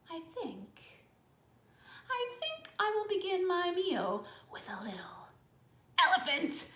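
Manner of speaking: whispered menace that ends in a laugh; sinister crocodile. Acted. Crocodile whispers his plan to eat the elephant. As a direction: savour the threat.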